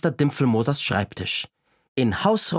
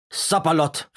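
higher, startled cry of the constable; surprised exclamation; 5 semitones higher than usual. Acted. The constable hears Hotzenplotz is caught, surprised. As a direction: blurt it out in surprise. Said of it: "rief der Wachtmeister überrascht".

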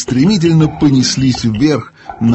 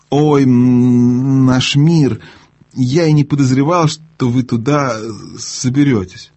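stammering mumble; slower than usual. Acted. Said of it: "пробормотал, запинаясь".

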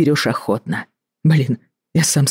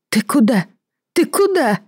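second "куда" shoots far higher; panicked cry; 11 semitones higher than usual. Acted. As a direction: call after him in alarm. Wife panics as husband leaves. (испуганный вскрик)

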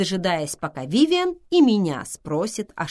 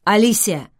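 raised, louder call of alarm; crying out; 4 semitones higher, 9 dB louder than usual. A narrator's reading. Thomas calls to the narrator on finding her, crying out. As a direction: call the name out, pitched up. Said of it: "закричал Томас".

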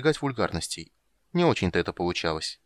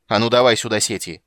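louder angry command; barking prince; 3 semitones higher, 8 dB louder than usual. Acted. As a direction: bark the order at the crew. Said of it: "рявкнула Главаль".

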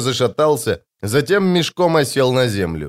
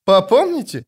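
high, incredulous echo; scornful snort; 9 semitones higher than usual. A narrator's reading. Corporal mocking Shtyr's warning, snorting. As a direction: throw the word back with scorn. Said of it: "фыркнула Хватка".

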